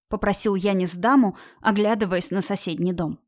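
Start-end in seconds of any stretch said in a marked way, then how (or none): none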